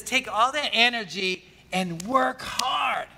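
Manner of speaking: slow shouted preacher's charge; shouted exhortation. Acted. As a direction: preach it out, urging.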